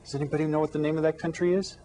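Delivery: teacher quickly repeating the question to the class; fast repeat. Shown as a demonstration. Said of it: "Here we can look at the map".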